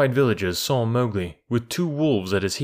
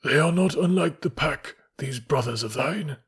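unhurried wolf elder, pitched up then settling; calm, figure-voiced observation; composed; 5 semitones higher than usual. A narrator's reading. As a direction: remark it with dry composure. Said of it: "sitting down composedly".

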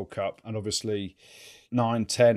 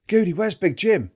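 imitating a fan; 9 semitones higher, 4 dB louder, slower than usual. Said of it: "he goes".

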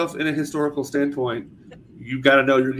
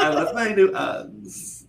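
put-on higher, slow basic white girl; 8 semitones higher, slower than usual. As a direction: play a mock basic girl. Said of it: "Your white people voice is very great".

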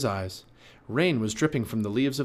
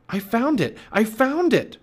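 high, excited cry, building louder; Jack crying out; 12 semitones higher, 6 dB louder than usual. A narrator's reading. Boy announcing the treasure to the girl, crying out excitedly. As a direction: exclaim the big discovery. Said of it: "cried Jack".

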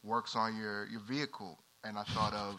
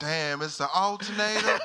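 higher, louder mock country reaction; adopted country accent; 7 semitones higher, 7 dB louder than usual. Customer copying the country mechanic, high loud country accent. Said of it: "I would adopt a country accent".

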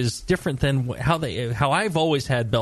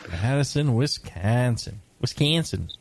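lightly mocked Wisconsin vowels in "Wisconsin"; light Wisconsin accent impression; imitated Wisconsin accent. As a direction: echo the place name in a Wisconsin accent, with "Wisconsin" drawn out on a flattened "a". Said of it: "That's how they say it out there".

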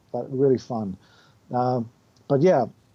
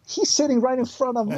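excited; 10 semitones higher than usual. Retold or imitated. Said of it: "I was like".

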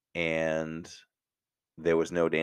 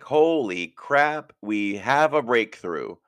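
excited; 6 semitones higher, 5 dB louder, slower than usual. Retold or imitated. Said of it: "I'm like".

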